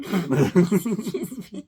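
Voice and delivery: slow, drawn-out mock British "Excuse me"; a kid trying a posh British accent for fun, laughing; put-on British accent. Girl shows off her British accent, slow and laughing. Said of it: "I can do a British accent".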